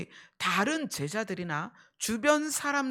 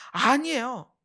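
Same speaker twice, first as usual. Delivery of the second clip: louder, emphatic denial; Peter protesting; 7 dB louder, slower than usual. Retold or imitated. Peter answers Jesus's prediction, protesting. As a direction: push back firmly. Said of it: "베드로는 그랬을 거예요".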